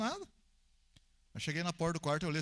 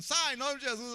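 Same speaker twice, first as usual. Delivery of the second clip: mock exorcist shout; 8 semitones higher, 4 dB louder than usual. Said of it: "não vou chegar lá gritando".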